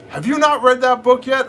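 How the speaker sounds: mock wife voice. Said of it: "she goes".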